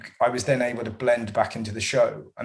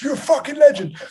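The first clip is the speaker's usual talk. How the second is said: much higher and louder, yelled; aggressive heckle; 9 dB louder than usual. Retold or imitated. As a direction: bellow it like a drunk aggressive bloke. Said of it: "it was properly aggressive".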